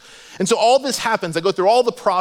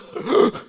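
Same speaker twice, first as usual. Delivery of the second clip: high, mock sobbing gasp; ugly-cry gasp; 4 semitones higher than usual. Shown as a demonstration. Pastor demonstrating ugly crying for the crowd, mock sobbing gasp. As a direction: imitate the heaving breath of ugly crying. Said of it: "you're breathing like".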